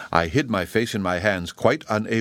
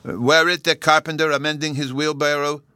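put-on high, sustained little-boy question; pitched-up childish question; eager child Bruno; 7 semitones higher, 4 dB louder than usual. A narrator's reading. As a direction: ask it high, like an excited small boy. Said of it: "Bruno asked me".

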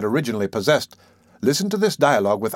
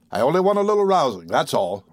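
high-pitched, feeble bluster; frightened man playing at fierce; alarmed bluster; 5 semitones higher than usual. A narrator's reading. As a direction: boast timidly, pitch shooting up. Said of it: "alarmed expression of every feature".

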